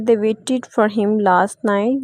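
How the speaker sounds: very slow, "waited" with a full extra syllable; slow model reading. Shown as a demonstration. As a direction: dictate slowly, "waited" as two syllables. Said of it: "इसमें हमारे पास वेटेड word जो है". (धीमे-धीमे, "waited" के दो syllable)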